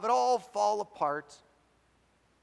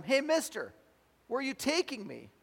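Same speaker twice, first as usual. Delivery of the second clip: startled hitchhiker; 9 semitones higher, 3 dB louder than usual. Acted. Alarmed hitchhiker questions the driver.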